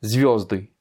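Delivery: "Звёзды" stressed on the first syllable, звё. Shown as a demonstration. Teacher presenting the plural of star, stress on ё. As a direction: lean on ё in "Звёзды". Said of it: "L'accent tonique est sur le yo".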